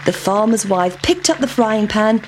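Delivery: ordinary delivery, nothing marked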